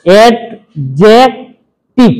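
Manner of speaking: অ্যাডজেক্টিভ drawn out slowly, every sound clear; careful model pronunciation. Shown as a demonstration. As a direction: stretch অ্যাডজেক্টিভ slowly for pupils to copy. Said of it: "আগে উচ্চারণটা আমার মুখ থেকে শোনো". (ধীরে স্পষ্ট করে অ্যাডজেক্টিভ)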